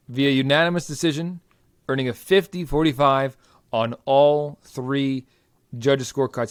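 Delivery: booming fight-night arena announcer; ring announcer voice. Acted. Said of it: "I started slipping into my ring announcer voice there".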